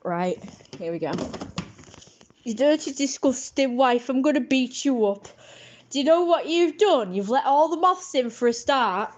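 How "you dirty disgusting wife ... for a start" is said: raised-pitch husband's scolding; lightly acted abusive husband; telling off wife. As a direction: give the wife a mock telling-off. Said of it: "I'm gonna get my wife, and I'm gonna, gonna tell her".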